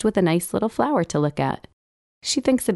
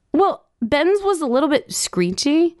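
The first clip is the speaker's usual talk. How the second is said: put-on higher childish voice; 10 semitones higher than usual. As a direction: pipe up like a small child. Child voice arguing.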